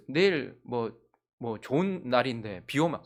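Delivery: ordinary talk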